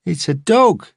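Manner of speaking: high mocking yob; teasing mate. A narrator's reading. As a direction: call it out as a playground taunt. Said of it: "the other said".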